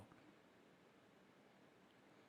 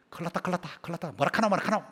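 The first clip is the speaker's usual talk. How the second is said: quick-tempered Gyeongsang grumble; Gyeongsang dialect; 2 semitones higher, faster than usual. Acted. Preacher imitating impatient locals for the congregation, Gyeongsang dialect. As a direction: run it together in Gyeongsang dialect. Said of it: "경상도 사투리".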